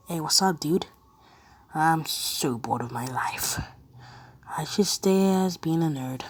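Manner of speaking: casual mock American accent. Shown as a demonstration. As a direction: try out a laid-back American dude voice. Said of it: "Um, American".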